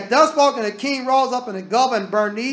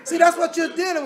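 laughing; 8 semitones higher than usual. Real, not acted. Laughing aside.

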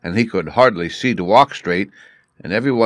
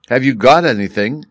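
louder, eager call; eager cry; 5 semitones higher, 5 dB louder than usual. A narrator's reading. Anxious wife greets her returning husband with an eager cry. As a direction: burst out with the question. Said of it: "cried his wife".

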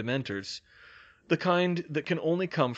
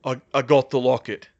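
halting, strained voice; stammering, worn-out report; weak, faltering; 8 dB louder than usual. A narrator's reading. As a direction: push the words out with effort. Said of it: "The words were so weak".

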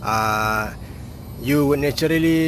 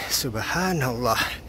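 soft, reverent; 4 dB quieter, slower than usual. Shown as a demonstration. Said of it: "you tend to say".

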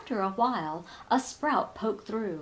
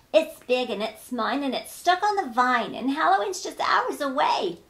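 louder, rising indignant insistence; cross witch; 4 semitones higher, 5 dB louder than usual. Acted. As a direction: insist it's hers, getting heated. Witch claims pumpkin, annoyed.

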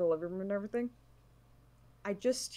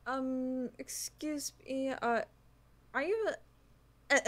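shy, hesitant, higher voice; timid high voice; 6 semitones higher, 5 dB quieter, slower than usual. Acted. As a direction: ask softly and nervously. Player voices shy character to NPC.

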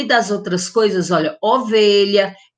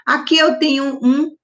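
urubu said much higher and louder; playful reveal; 8 semitones higher, 5 dB louder than usual. Shown as a demonstration. Teacher revealing the vulture picture to pupils, excited and loud. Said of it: "começa com a letrinha U".

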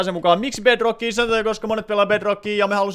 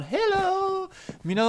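much higher, softer put-on hello; silly greeting voice; 11 semitones higher, 4 dB quieter, much slower than usual. Streamer greeting chat as a character, high put-on hello. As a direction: squeak a cute character hello.

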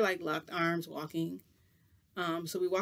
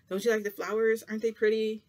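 lightly imitated coaxing, higher and louder; 5 semitones higher, 7 dB louder than usual. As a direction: retell a cheer-up attempt, pitched up. Madara cheering up the upset speaker.

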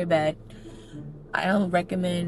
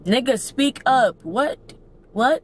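loud, higher, slow demand; exasperated call to speak up; 5 semitones higher, 7 dB louder, much slower than usual. Real, not acted. Telling the whisperer to speak up, loud and exasperated. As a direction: raise your voice in real exasperation.

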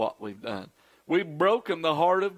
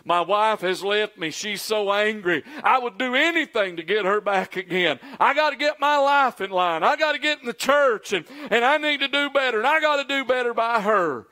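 desperate pleading; 4 semitones higher than usual. Retold or imitated. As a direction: beg like a man whose wife left. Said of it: "this has happened more than once".

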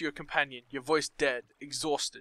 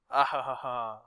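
evil laugh; 4 semitones lower than usual. Acted. Villain gloating over screams.

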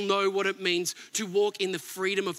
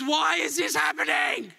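anguished cry to God; 5 semitones higher than usual. Retold or imitated. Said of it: "comes to God in prayer and he says".

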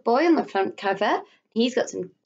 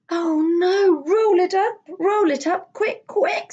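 hurried, anxious urging; urgent mother; 9 semitones higher, 4 dB louder than usual. Acted. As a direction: rush him, worried. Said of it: "said his mother".

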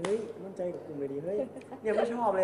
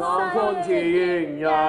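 much louder shouted line; shouted lyric; 3 semitones higher, 11 dB louder than usual. Acted. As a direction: yell the lyric out.

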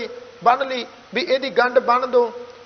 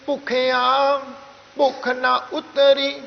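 slow, level Gurbani reading; scripture recitation; slower than usual. Shown as a demonstration. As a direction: recite deliberately, resting after ਭੁੱਖਿਆ. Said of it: "ਫਿਰ ਅੱਗੇ ਆਪਾਂ ਪੜ੍ਹਨੇ ਜੀ". (ਗੁਰਬਾਣੀ ਦਾ ਸਹਿਜ ਪਾਠ)

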